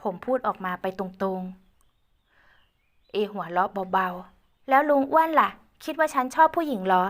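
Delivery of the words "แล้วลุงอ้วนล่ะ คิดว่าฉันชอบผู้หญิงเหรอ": put-on higher, louder teasing girl voice; teasing young woman. Ae teasing Uncle Uan, higher girlish voice. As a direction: tease him playfully as Ae.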